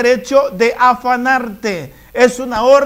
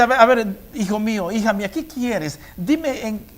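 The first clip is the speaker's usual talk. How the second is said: tender voice of God. Acted. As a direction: coax gently like a loving father. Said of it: "El Señor dice".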